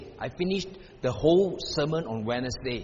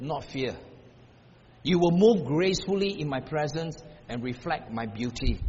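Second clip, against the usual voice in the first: God's comforting voice; 2 semitones lower than usual. Retold or imitated. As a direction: speak peace over her gently.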